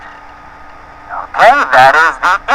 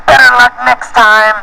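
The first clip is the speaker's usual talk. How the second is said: mock yell; 8 semitones higher than usual. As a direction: call it out high like a taunting racer. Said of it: "He yelled".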